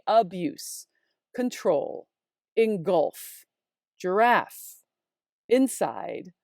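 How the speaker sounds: "abuse, control, engulf, giraffe, inside" each stressed on the second syllable; deliberate list, leaning on the last syllable of "abuse, control, engulf, giraffe, inside"; "abuse, control, engulf, giraffe, inside" one by one with pauses, second beat heavy; soft-heavy words. Shown as a demonstration. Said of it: "a list here of soft, heavy".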